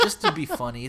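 laughing through the words, pitched high. Real, not acted. Explaining the joke post to his co-host, laughing. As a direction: break into a laugh as you say it. Laughing while telling story.

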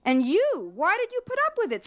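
rising high and quick toward the end; a burst of agitated disbelief; fast, high, pressing question; excitedly. A narrator's reading. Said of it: "said Bluma excitedly".

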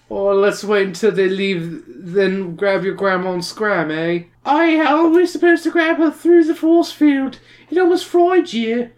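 put-on slurred town drunk voice; slurring drunk. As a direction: slur the words like a drunk. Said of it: "It's like slurring his words".

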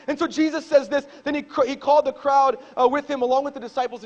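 loud, high, driving preacher voice; preaching. Acted. Pastor to his church, preaching at full force. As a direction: pastor pressing the crowd hard.

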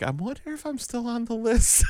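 high, softened wondering voice; mock-innocent high musing; musing aloud. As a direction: wonder it high and lightly, like a private thought. Retold sly wondering to himself.

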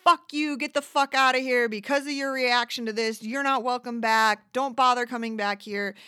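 loud angry telling-off; yelling at a rude customer to leave. Retold or imitated. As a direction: tell them to get out, loud. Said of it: "I have to be like".

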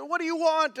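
loud, high, demanding question; frustrated dad. Retold or imitated. Father demanding an answer from his son. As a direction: bark the question at the kid. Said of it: "And I said".

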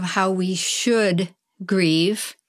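should leaned on a little; gentle weight on should; stress on should. Shown as a demonstration. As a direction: press lightly on the word should. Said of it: "emphasis on the word should".

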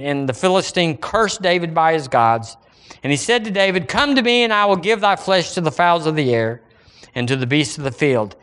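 scripture reading. Acted. Preacher reading David and Goliath to church, declaimed scripture. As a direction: read the verse out to the congregation.

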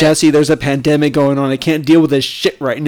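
loud comic pleading with the artist; mock exasperated scolding. Cohost complains to Jesse about pandemic anxiety, mock exasperated. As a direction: scold her loudly, half joking.

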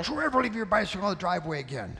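put-on fast, clipped-off telling off of a child; mock angry scolding. Father scolding his son about the bike, fast and mock angry. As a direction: rattle it off like a fed-up dad.

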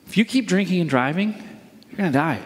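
brisk, matter-of-fact warning. Shown as a demonstration. Pastor illustrating a warning to the congregation, cautioning. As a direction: caution them plainly, without menace. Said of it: "Here's a warning".

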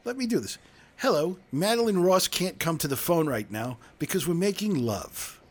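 answering machine message. Retold or imitated. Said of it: "He goes".

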